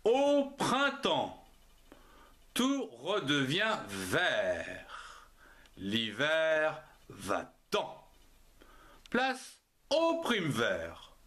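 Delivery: slow, drawn-out poetry recitation; measured verse with long pauses; poem recital. Acted. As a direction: recite it grandly, stretching each phrase. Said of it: "voici le poème".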